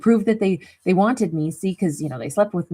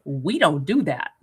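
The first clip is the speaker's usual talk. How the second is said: lower, slow, firm mom voice; stern mom; 3 semitones lower than usual. Retold or imitated. Mom shuts down her child's misbehavior, firm and low. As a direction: lay down the rule, lower and slow. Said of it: "my mom just said".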